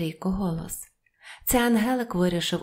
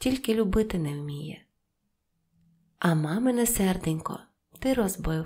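usual speaking voice

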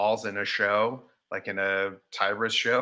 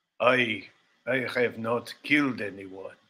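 fake, put-on Russian accent. Playing along as if on the Law and Order set, put-on Russian accent. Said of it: "I just want to hear your guys' Russian accent".

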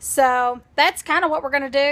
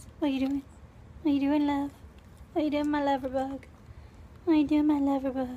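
soft, odd, silly little put-on voice; 8 dB quieter than usual. Speaker talks to her dog to show its reaction, in a little weird voice. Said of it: "Every time I do like a little weird voice".

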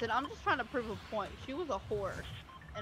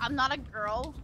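acted, affronted, indignant little tone; 5 dB louder than usual. Acting out someone who gets offended at a joke: mock offended. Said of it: "get offended and be like".

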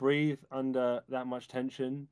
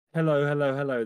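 relaxed, easy, tension-free, unstrained voice; 8 dB louder than usual. Demonstrating breathing into the back while speaking, relaxed, tension-free voice. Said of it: "There's no tension in my voice".

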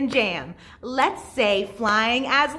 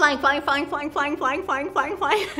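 very fast, rapid-fire, much higher pitch; 2 semitones higher than usual. Leading a say-it-fast word exercise for listeners at home: very fast. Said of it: "Let's say flying as fast as we can".

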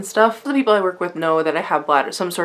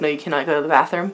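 usual speaking voice

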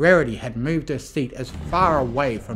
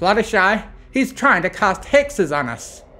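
raised, high-pitched, protesting tone; 7 semitones higher, 5 dB louder than usual. Rising from her seat, she objects to her friend: protesting. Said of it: "Applejack protested".

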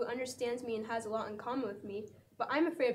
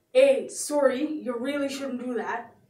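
booming, very loud put-on Canadian accent; 11 dB louder than usual. Replying to a setup line after the category is called: canadian accent.

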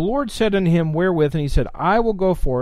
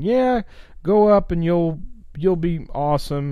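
mocking, heavily sarcastic, dripping with sarcasm. Imagining how Micaiah really said it, acting out sarcastic Micaiah. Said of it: "just really sarcastically doing it".

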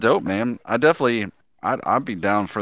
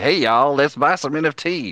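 rural Southern US accent, pitched up; 6 semitones higher than usual. Contrasting eloquent speakers with someone pitching NFTs in a redneck accent. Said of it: "with a redneck accent, like".

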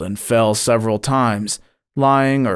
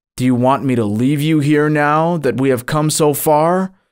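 stern, severe; 4 semitones higher than usual. Narrator voicing the guide answering the narrator's plea to turn back, stern. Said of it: "My guide sternly answered".

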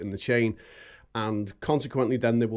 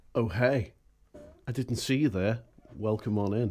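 put-on sleazy voice. Greeting viewers at the start of a YouTube video: put-on sleazy voice. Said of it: "That was sleazy".

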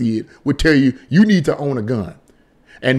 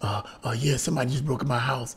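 hushed half-whisper, very quiet, barely audible; 2 semitones lower, 13 dB quieter than usual. Acting out a call to nine one one during a break-in, acting out a half-whisper. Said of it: "but then you gotta whisper".

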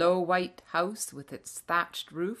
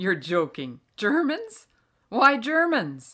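loud, laughing while speaking; 4 semitones higher, 8 dB louder than usual. Father answers a man who took him and his son for germans, laughing.

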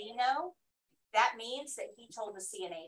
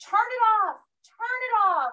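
very high, very loud, repeated yelling; 11 semitones higher, 10 dB louder than usual. Retelling how a patient reacted to the room light: imitating a patient yelling. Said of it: "he starts yelling right away".

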